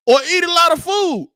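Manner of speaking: sudden high loud punchline; emphatic shout. Real, not acted. Punchline of blow-up advice.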